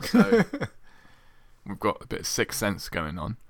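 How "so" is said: high drawn so. Real, not acted. Punchline setup.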